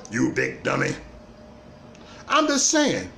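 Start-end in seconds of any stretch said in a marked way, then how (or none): 0.1-0.9 lightly mock-scold like the grumpy old junk man; light take on a grouchy TV father calling his son a dummy; Fred Sanford. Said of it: "In my Fred Sanford voice".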